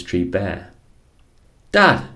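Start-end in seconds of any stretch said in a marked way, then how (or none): 1.7-2.1 loud, high shriek of Dad; screaming. Acted. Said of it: "she screamed".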